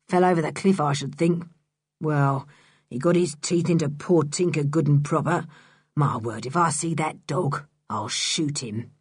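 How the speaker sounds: a hint of a mocking rough man; Mister Stick's voice.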